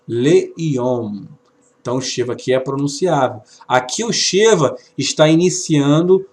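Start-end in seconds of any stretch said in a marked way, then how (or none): 0.1-1.3 "Leyom" joined, short le and long yom; blended demonstration. Shown as a demonstration. Teacher putting the syllables together for students, "Leyom" said clearly and deliberately. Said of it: "está sendo pronunciado".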